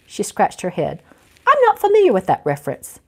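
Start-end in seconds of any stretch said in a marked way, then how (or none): 1.5-3.0 put-on high, fast, prim old lady; a lightly voiced fussy old ghost; puzzled old lady voice, much higher.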